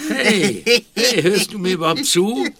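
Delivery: loud, high, frantic yelling; panicked shout. Acted. Viktor tells Tim someone wants to kill him, panicked. Panicked, friend not listening.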